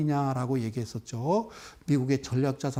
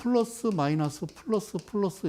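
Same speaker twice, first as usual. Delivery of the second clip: reading out signs; 4 semitones higher than usual. Shown as a demonstration. Teacher showing students how to read candles, reading out signs. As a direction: call each sign as a separate beat, stepping down in pitch. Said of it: "이렇게 읽는 거라고".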